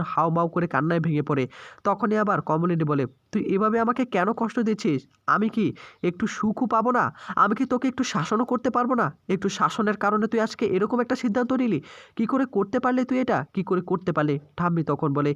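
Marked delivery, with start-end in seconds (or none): 3.3-11.8 pleading, pitched higher with grief; a mother begging her fallen son, voice rising; anguished mother. Acted. Mother over her unconscious son, anguished and raised. 12.2-13.4 anguished cry. Acted. Mother crying out at her son, high anguished plea. 13.5-14.4 broken repeat. Acted. Mother repeating the question to her son, subdued and broken.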